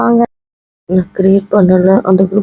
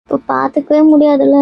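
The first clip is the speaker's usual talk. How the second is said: higher, sorrowful protest; tearful; 6 semitones higher than usual. Acted. Friend upset about not meeting, tearful. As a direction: mourn the parting, voice raised in pitch. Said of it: "ஏன்டி இப்படி மூணு பேர் அழுதுட்டு".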